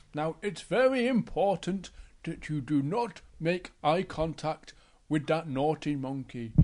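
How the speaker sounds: a careful, hushed-down warning to a cub; Big Bear. Acted. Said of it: "Big Bear says to Little Bear".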